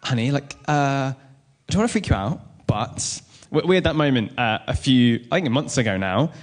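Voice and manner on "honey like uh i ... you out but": tentative "don't panic" voice; careful forewarning voice. Acted. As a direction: break it gently, with halting pauses. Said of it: "you do that voice like".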